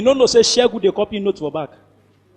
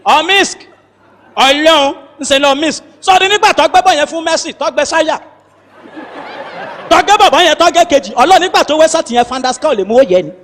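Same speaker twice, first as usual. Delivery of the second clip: Yoruba commentator; 4 semitones higher than usual. Retold or imitated. Yoruba football commentary impression.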